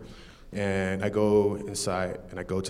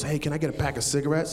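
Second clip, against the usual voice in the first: quick, higher retold request; mildly agitated; 4 semitones higher, faster than usual. Carjacker asks cashier for cigarettes, a touch agitated. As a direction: rush it a little, lightly restless. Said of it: "he's a little agitated".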